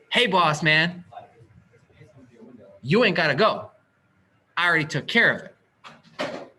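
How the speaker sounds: loud, emphatic mock phone message; loudly voicing what should have been said; imagined call-out. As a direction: call it out in separate punchy bursts. Imagined call telling uncle off duty.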